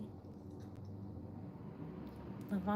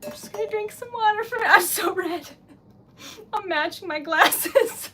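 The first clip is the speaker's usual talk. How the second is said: laughing through tears; 3 semitones higher, 6 dB louder than usual. Real, not acted.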